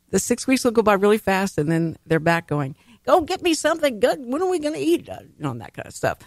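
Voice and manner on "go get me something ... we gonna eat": put-on kids whining for food, pitched way up; mock the kids nagging mom for food; mimicking hungry kids. Mother mimicking her hungry kids, high whiny voice.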